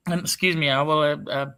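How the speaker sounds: hoarse, husky throat. Real, not acted. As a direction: talk through a husky, scratchy voice. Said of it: "my wonderful husky voice".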